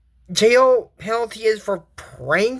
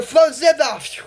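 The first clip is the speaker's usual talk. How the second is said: louder, higher casting call; spell shout; 6 semitones higher, 3 dB louder, slower than usual. Acted. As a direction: fling the spell out.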